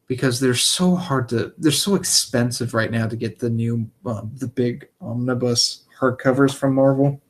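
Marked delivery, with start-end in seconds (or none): 4.1-7.2 choking. Real, not acted. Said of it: "Sorry, I'm choking on air".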